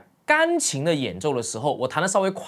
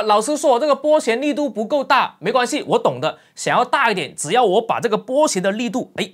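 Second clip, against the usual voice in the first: higher, louder mock-confident student; a lightly hammed-up know-it-all student; imitating a confident student; 5 semitones higher, 4 dB louder than usual. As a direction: voice the pupil who thinks bigger strokes fix it. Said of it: "因为有很多同学听到说啊".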